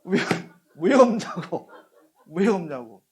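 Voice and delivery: loud, high-pitched outraged complaint; angry demand. Acted. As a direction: act out someone indignantly demanding an answer. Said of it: "화를 내는 거예요".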